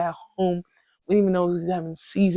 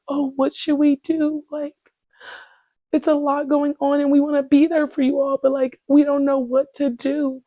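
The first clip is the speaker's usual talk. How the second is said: mocking white tears; 8 semitones higher than usual. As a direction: parody helpless teammates, much higher. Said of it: "it was giving very much, like, white tears".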